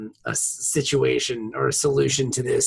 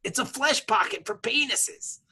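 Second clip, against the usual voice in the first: whisper; 7 semitones higher, 8 dB quieter than usual. Real, not acted. Joking aside.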